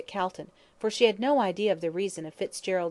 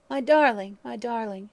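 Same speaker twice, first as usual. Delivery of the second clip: sobbing; 4 semitones higher, 5 dB louder than usual. Acted. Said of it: "she sobbed".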